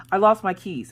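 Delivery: high, loud plaintive confession; mock distress. Wife telling husband about lost keys, mock distress. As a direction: own up in a hammed-up whine.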